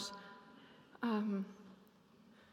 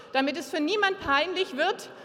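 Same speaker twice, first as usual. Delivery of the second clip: raised voice over the room; loud urging; 4 semitones higher, 8 dB louder than usual. Real, not acted. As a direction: rouse the congregation to greet. Urging congregation to greet.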